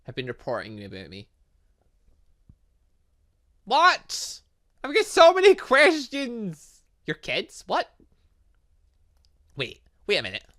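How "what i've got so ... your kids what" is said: shocked disbelief. Real, not acted. Boss reveals his kids report.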